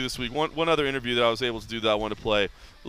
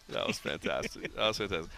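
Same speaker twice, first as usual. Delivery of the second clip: whispered; 3 semitones lower, 8 dB quieter than usual. Real, not acted. Whispered while laughing.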